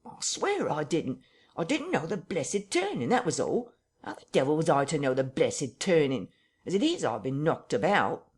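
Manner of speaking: frightened tramp pleading with his captor; near tears. Acted. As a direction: beg like he might cry any second. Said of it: "in a voice that was not far remote from tears".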